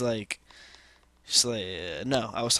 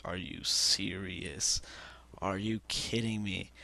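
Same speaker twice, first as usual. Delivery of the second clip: disbelief; 3 semitones lower, 4 dB quieter, slower than usual. Retold or imitated. Retold disbelief at cousin's admission.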